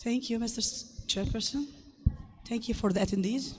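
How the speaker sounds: hoarse, strained throat; speaking through a rough, hoarse voice; harsh voice. Real, not acted. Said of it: "So sorry for the harsh voice".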